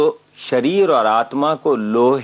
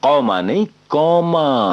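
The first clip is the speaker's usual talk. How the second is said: कौमा stretched out with rising force; emphatic correction; 3 semitones higher, 4 dB louder than usual. Acted. Mock correction of the word.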